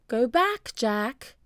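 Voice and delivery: gentle human-like parrot; parrot sounding human. A narrator's reading. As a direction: say it like a person, not a bird. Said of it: "She sounded like a person".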